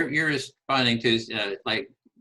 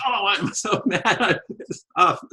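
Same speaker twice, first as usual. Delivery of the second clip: higher-pitched mock echo of the anger, laughing; therapist mirroring anger; 8 semitones higher than usual. Therapist matching an angry client, mock indignant with a laugh. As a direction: ham up a therapist copying the client's fury. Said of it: "the therapist says".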